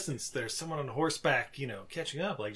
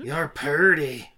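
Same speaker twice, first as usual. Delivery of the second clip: slow smitten compliment; 7 dB louder, much slower than usual. Retold or imitated. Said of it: "You're like".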